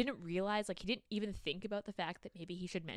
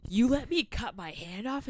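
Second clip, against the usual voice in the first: mock outrage, louder and drawn out; incredulous; 3 semitones higher, 5 dB louder, slower than usual. Man confronting her over his cut hand, incredulous. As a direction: stretch it into a disbelieving accusation. Acted outraged quote in retelling.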